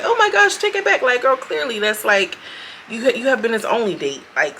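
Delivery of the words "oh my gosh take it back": mocking high whine. Mocking her plea.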